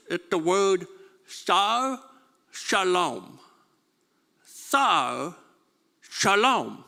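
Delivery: Sar spoken slowly and clearly, then Shalom; Hebrew word. Shown as a demonstration. Pastor teaching the congregation the Hebrew name, slow and clear. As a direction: carefully sound out Sar Shalom. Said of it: "in the Hebrew language".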